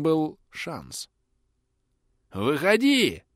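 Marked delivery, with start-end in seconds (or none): 2.3-3.2 shrieking shout. Acted. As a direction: voice breaking into a shriek. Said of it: "срываясь на визг, крикнул бандит".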